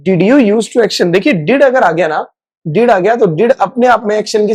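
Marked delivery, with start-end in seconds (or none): 0.1-1.1 slow model question. Shown as a demonstration. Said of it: "question करना है".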